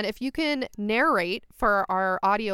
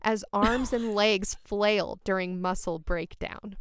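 sexy voice. Pretend. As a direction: read it like a seductive bedtime story. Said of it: "reading that, like, in a sexy voice".

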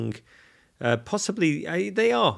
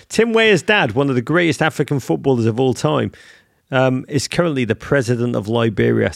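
excited; 7 dB louder than usual. Real, not acted. Bursting with a fun fact.

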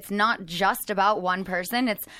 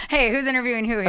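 laughing tease; 3 semitones higher, faster than usual. Real, not acted. Joking complaint with laugh.

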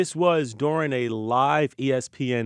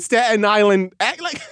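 slow, higher mock Staten Island accent; 5 semitones higher, 3 dB louder than usual. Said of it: "come back with a little".

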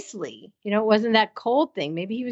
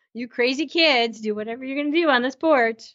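lightly voiced indulgent dad, pitched up; higher, hurrying mock-dad aside; teasing dad; 4 semitones higher than usual. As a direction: playfully wave the young ones off, as an imitation. Voices the teasing dad's exit.

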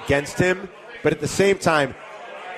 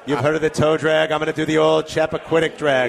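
put-on Boston accent. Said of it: "We get to do our Boston accent".

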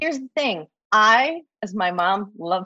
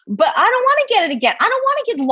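insistent; 13 semitones higher, 5 dB louder, faster than usual. Real, not acted. Repeats the line with more force.

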